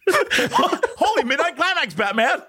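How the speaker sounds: slow, high hammed-up sidekick cry; campy Robin exclamation. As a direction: stretch it out like Robin. Mock Robin line, laughing.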